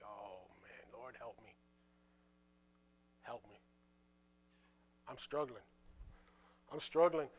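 very low, hushed, drained plea; barely voiced mock-defeated mumble, rising slightly at the end; acted weary struggle. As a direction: sigh it out as if worn down. Acts out his struggling Monday self.

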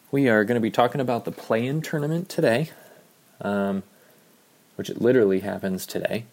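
slightly winded while talking; out of breath. Real, not acted. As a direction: talk a little out of breath. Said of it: "Why am I out of breath?".

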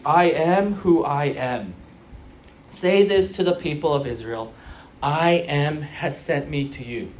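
a grave divine pronouncement; solemn God. Retold or imitated. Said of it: "God says this cryptic phrase".

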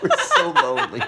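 high, drawn-out mock whimper; whiny lonely plea. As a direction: beg like a lonely puppy.

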